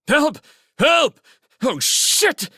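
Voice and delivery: high, loud panicked screaming; panicked cries for help. A narrator's reading. Scout under attack calls out over the radio, panicked. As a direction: scream for help in sheer alarm.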